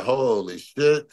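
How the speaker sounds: slow, drawn-out amazed "holy"; mock stunned, stretching the words out; retold awe. Awed at seeing national stage.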